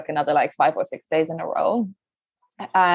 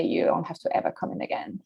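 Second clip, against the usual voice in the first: cold whispered threat; 7 dB quieter than usual. Retold or imitated. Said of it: "the next message that came in was".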